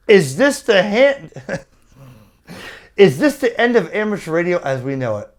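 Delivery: quick, hammed-up doom-laden announcer read; over-the-top fake drama, rushed; mock clickbait title. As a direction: parody an alarmist YouTube headline. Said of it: "make a YouTube video and say".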